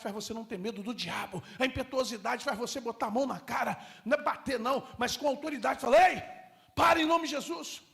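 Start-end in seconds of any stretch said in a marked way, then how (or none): 1.6-7.8 builds louder toward a commanding rebuke; rising preaching. Acted. Preacher urging the church to speak with authority, building shout. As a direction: climb in volume and authority.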